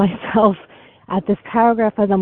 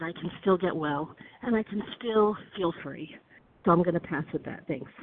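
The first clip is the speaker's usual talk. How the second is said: soft and quiet; 2 semitones lower, 11 dB quieter than usual. Real, not acted. Closing reflection, voice drops very soft.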